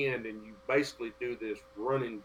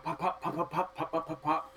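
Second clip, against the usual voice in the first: pistol sound effect; 5 semitones higher, 3 dB quieter than usual. Retold or imitated. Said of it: "my pistol going pop".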